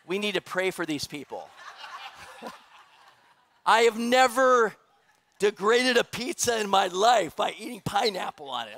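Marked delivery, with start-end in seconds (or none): 3.7-8.8 mock outrage. Pastor jokingly outraged at pineapple pizza, mock shout. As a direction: boom out fake horror at the idea.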